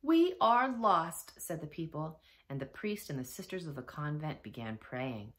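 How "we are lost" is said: slow, loud, high wail of despair; despairing cry. A narrator's reading. Townspeople facing a flood of pasta, crying out in despair. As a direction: draw it out loudly, all hope gone. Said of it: "they cried".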